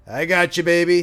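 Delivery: smiling. A narrator's reading. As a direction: say it with a big smile. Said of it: "he said with a smile".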